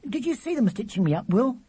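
put-on very high, eager child's voice; piercing little brother. A narrator's reading. Charlie plying his brother with questions, piercing. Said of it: "plied his brother with endless questions".

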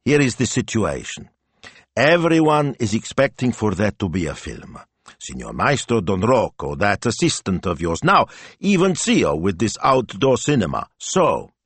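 lightly voiced practical wife; wife taking charge. Wife explains who expects a film, taking charge. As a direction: lay out the situation for him, lightly in character.

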